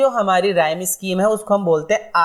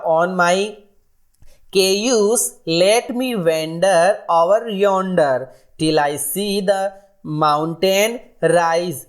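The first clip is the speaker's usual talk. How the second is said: slow, drawn-out recitation of verse; poem reading; much slower than usual. Acted. Teacher slowly recites a cowboy poem to the class. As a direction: read each line of the poem slowly, savouring it. Reads poem lines aloud.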